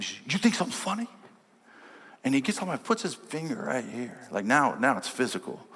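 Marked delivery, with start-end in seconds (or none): 0.0-1.1 menacing tough guy. Retold or imitated. Big guy confronting him.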